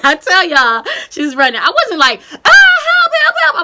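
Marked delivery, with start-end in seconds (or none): 2.3-3.6 high hammed-up shriek, laughing; mock screaming. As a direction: overdo the panic, laughing. Mock hysterical calling for help.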